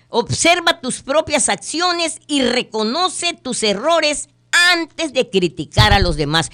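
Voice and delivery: emphatic repeat. Shown as a demonstration. Host repeating the moral to listeners, emphatic. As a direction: press it home again. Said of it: "Es cierto".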